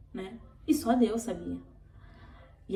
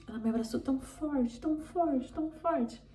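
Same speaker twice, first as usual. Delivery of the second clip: voice breaking; 5 semitones higher than usual. Real, not acted. Recalling the pastor's strong hug.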